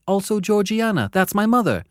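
put-on high, frightened boy; timid child. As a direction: explain timidly.

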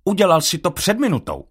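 vyšší hlas psa Edisona; Edison. A narrator's reading. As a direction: pes Edison připomíná, lehce vyšším hlasem. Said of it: "ozval se Edison". (Edison povzbuzuje Jacoba, vyšším hlasem)

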